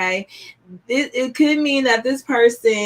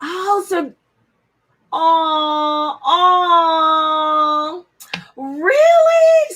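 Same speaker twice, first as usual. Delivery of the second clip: real excited squeal; 5 semitones higher, much slower than usual. Real, not acted. Delighted by viewer's news.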